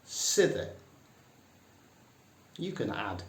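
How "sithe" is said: high, punchy Northern "Sithe"; broad Yorkshire "Sithe". Shown as a demonstration.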